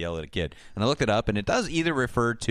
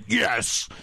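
mock kid cheer; 9 semitones higher than usual. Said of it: "the kid's like".

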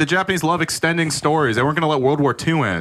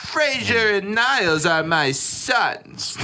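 mock dad voice; 5 semitones higher, much slower than usual.

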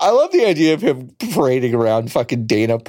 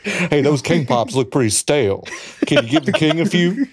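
Elvis voice. Pretend. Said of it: "being like".

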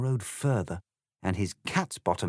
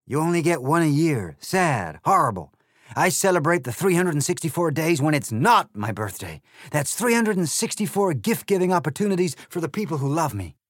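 loud, higher, sneering egg voice; rude Trumpty Dumpty; 8 semitones higher, 6 dB louder than usual. Acted. The egg insults Alice, loud sneering voice. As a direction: sneer it with contempt.

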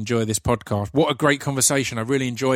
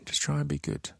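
said again much softer, fading; soft whispered repeat; 3 semitones higher, 8 dB quieter than usual. Shown as a demonstration. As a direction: let it fade away, softer still. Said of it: "repeated softer sign-off".

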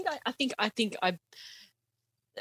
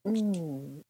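savoring mm; 4 semitones lower than usual. Acted. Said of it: "The mm is in the text".

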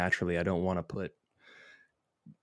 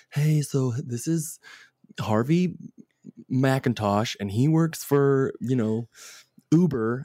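slick introducer; 4 semitones higher than usual. Retold or imitated. Imitating a party introducer.

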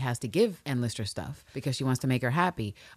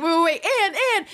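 calling after Ann; 13 semitones higher, 6 dB louder, faster than usual. Retold or imitated. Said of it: "she's like".

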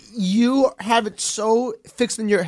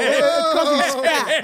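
slow, laughing through words; much slower than usual. Real, not acted. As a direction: laugh while teasing. Laughing joke.

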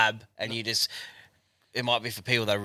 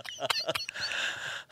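breathless, wheezy laugh; laughter; 3 semitones higher, 9 dB quieter than usual. Real, not acted. Co-host cracks up at the nickname punchline, laughing. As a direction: laugh until the air runs out.

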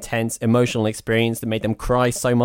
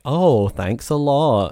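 slow, higher, dripping sarcastic "thanks a lot"; 4 semitones higher, much slower than usual. Pretend. Guessing what the curt caller meant, slow and sarcastic. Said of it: "a thanks as in".

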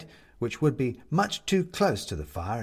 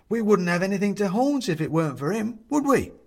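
high, louder gleeful burst; 9 semitones higher, 5 dB louder than usual. Acted. Bobs answering the young woman, gleeful and loud. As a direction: delight in the joke. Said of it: "says Bobs gleefully".

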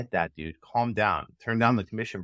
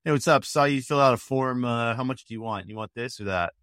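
mindless sales pitch. Retold or imitated. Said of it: "you just say".

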